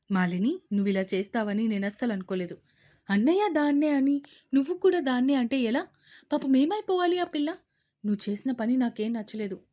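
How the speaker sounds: loud reproach; reproachful. Acted. Aunt rebuking the mother, reproachful. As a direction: chide her firmly.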